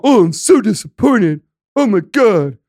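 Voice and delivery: a prissy mock-disappointed voice; mocking the critics who claim to be disappointed; mocking whiny critic. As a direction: sneer it like a fake-hurt fan.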